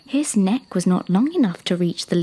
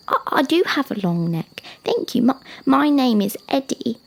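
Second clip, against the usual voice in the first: put-on high child's voice, halting start; flattered young giraffe; 5 semitones higher, 3 dB louder than usual. Young giraffe thanking the rock, high, halting and pleased. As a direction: stumble into a pleased high introduction.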